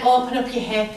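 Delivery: ordinary talk, nothing marked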